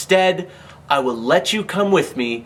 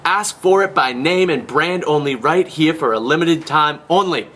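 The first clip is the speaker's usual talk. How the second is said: chipper 1950s ad. Acted. Rapid sales pitch patter.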